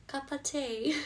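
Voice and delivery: playful put-on British-style accent; bad accent. Asking for a drink, in a badly put-on accent. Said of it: "I'm really bad with accents".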